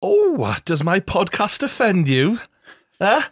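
high, whiny mock challenge; mocking taunt. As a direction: taunt the listener in a squeaky voice.

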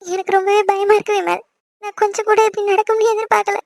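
upset and close to crying; tearful, frightened. Acted. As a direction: plead through tears, pitch rising. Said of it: "இப்ப எதுக்கு நீ அழுதுகிட்டு இருக்க".

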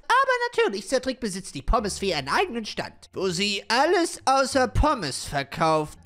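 proud little shopkeeper fairy; lightly voiced fairy. Fairy explains her shop.

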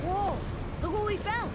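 high, loud thrilled whoop; can't contain the delight; excited discovery. Acted. Boy to father, thrilled at the find.

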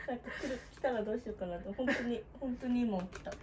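quiet sleepy voice; soft and drowsy, barely awake; just woke up. Real, not acted. (寝起きの声)

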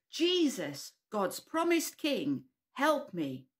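put-on children shouting together; group shout. Shown as a demonstration. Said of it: "Can we all shout that together".

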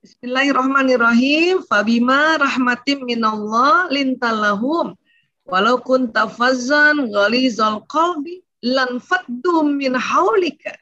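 slow, measured Arabic recitation; Quran recitation. Acted. Speaker recites the Quran verse for the parents, slowly.

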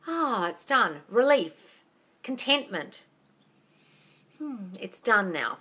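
slow, contented demonstration of relief; relieved sigh. Shown as a demonstration. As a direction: let it settle as though already done. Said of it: "demoing relief".

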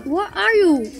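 talking while chewing gum. Real, not acted. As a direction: say it with gum in your mouth. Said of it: "Stop chewing gum".

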